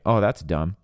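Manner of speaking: mildly dismissive, tossed-off remark; offhand dismissal. Retold or imitated. Husband retelling his thoughtless comment to his wife, mildly dismissive. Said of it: "Go back to the comment that I made".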